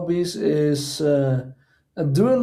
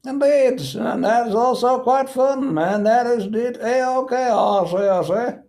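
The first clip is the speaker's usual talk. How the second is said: a lightly voiced upper-class English toff; light posh British; 6 semitones higher than usual. Chatting with a friend, a hint of a posh Englishman. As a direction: toss off "I say" like a lightly played gentleman. Continuing posh gentleman bit.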